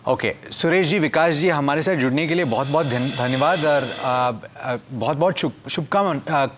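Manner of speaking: halting Hindi with a foreign accent; stumbling non-native Hindi, restarting words; foreigner speaking Hindi. Real, not acted. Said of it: "मेरी हिंदी इतनी strong नहीं है".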